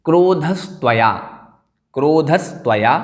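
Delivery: क्रोधस्त्वया said word by word with a long "kro"; teacher's careful demo of क्रोधस्त्वया; careful pronunciation. Shown as a demonstration. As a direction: model क्रोधस्त्वया clearly, sounding the s before "tvaya". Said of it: "दोबारा उच्चारण कर लेते हैं".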